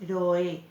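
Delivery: "Ro, e" with the o and e kept apart; hiato separado. Shown as a demonstration. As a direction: say "Ro, e" as two distinct syllables. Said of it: "Va separado". ("Ro, e" con las vocales separadas)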